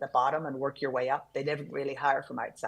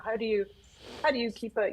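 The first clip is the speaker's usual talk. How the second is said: curious questioner; 7 semitones higher, faster than usual. Retold or imitated. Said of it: "people are like".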